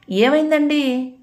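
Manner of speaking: high, drawn-out anxious question; alarmed. A narrator's reading. Wife sees husband's torn clothes, alarmed. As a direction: ask in worried dismay, stretching the words. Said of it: "అని కంగారు పడింది".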